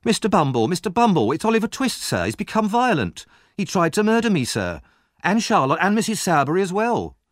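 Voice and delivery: high, breathless-sounding plea for help; tearful alarm, pitched very high; crying out frightened. Acted. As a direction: report an attack in exaggerated panic. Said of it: "Noah cried".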